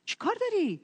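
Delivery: imitated crowd's reprimand; retold scolding. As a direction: shush and dismiss him impatiently. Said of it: "دعواش کردن".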